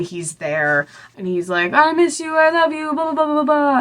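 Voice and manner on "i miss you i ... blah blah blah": high-pitched, gushing imitation of a lover; hammed-up high lovey-dovey voice; mock lovesick declaration. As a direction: run the sweet talk in a put-on high voice into babble. Mock-voicing Hayes's love declaration.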